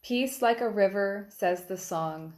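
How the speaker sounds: even, measured recital with pauses between phrases; poetry reading. Acted. Poet reads Rivers, on the sharing of the peace, measured recital. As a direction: read the poem aloud line by line. Reads own poem aloud.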